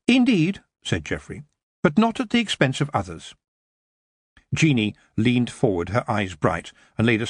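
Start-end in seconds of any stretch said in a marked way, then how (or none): 0.1-3.4 lightly voiced polite young man; firm but kind; courteous Geoffrey.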